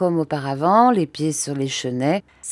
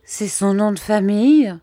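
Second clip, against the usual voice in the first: higher-pitched, tentative explanation; timid; 5 semitones higher, 5 dB louder than usual. A narrator's reading. Mother timidly explains the servant's name, timid. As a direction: offer it as a meek correction. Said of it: "reprit timidement ma mère".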